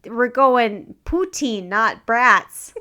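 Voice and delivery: put-on slow, loud hammy Canadian accent. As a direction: ham up a bad Canadian accent. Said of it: "horrible Canadian accent".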